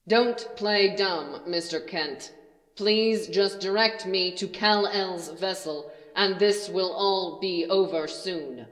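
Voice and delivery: slow, cold, otherworldly menace; a lightly voiced creature, calm and wrong; inhuman voice. Stranger threatens Jonathan in the barn, lightly voiced inhuman menace. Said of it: "The voice was wrong, somehow. Not a human voice".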